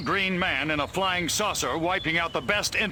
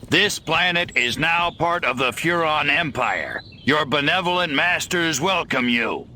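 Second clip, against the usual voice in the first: loud, booming alien proclamation; alien overlord announcement; 5 dB louder than usual. Acted. Alien invader booms at the farmers. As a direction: announce conquest to the planet. Alien addresses Earth creatures.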